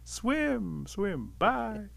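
high call, no longer shouted; fading call. A narrator's reading. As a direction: call after someone drifting away. Calls after Otter swimming away.

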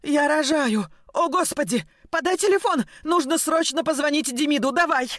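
woman in labour shouts at her friend in panic; frantic shouting. Acted. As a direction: yell orders in a panic. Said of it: "Судорожно выкрикивала она".

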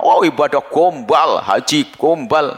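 slow, drawn-out sneer; mock the pilgrim slowly and scornfully; scornful mockery. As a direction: stretch each gombal with contempt. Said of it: "kadang-kadang kita itu marah".

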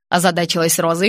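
usual speaking voice

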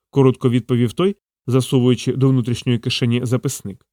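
ordinary talk, nothing marked

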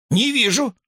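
high, desperate squeak; hamster in despair. A narrator's reading. Hamster can't see the teacher, high desperate cry. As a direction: wail that you can't see. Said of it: "воскликнул он в полном отчаянии".

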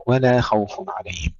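ولا with a thin light ل; ولا: keep the ل light, never heavy; light lam. Shown as a demonstration. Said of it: "كذلك اللام ولا خوف". (ترقيق اللام في ولا)

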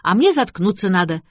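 lightly voiced contrary niece; disagreeing girl. A narrator's reading. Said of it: "не согласилась Шарлотта".

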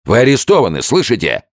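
loud, high shouted arrest; officer shouting. A narrator's reading. Officer shouts toward the bunk, loud. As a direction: fling the words at the bed. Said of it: "закричал офицер".

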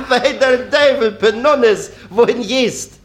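put-on high old granny calling across the street; old woman calling. Oma ruft der anderen zu.

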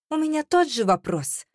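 high, tense angry retort; hissed retort. A narrator's reading. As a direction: throw it back at him with venom. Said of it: "прошипела я".

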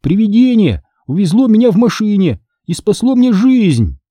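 high, emphatic announcement; calling over noise. A narrator's reading. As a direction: raise the pitch to be heard. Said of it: "стараясь перекрыть треск огня".

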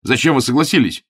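high, loud outraged questions; indignant. A narrator's reading. Augustine scolding the bishop for giving in, indignant. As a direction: demand an answer in outrage. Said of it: "возмутился Августин".

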